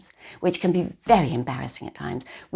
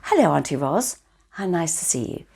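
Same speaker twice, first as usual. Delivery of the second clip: Teddy greeting. Pretend. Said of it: "Teddy comes out".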